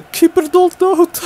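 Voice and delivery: high, loud and slow; stretched high shout at the keeper; excited yell. Real, not acted. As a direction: drag it out in glee. Reacting to the keeper.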